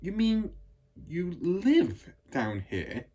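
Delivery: put-on high, slow, wondering little girl; a small girl asking, amazed; Matilda's voice. A narrator's reading. Matilda asking her teacher, high wondering girl voice. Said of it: "Matilda asked".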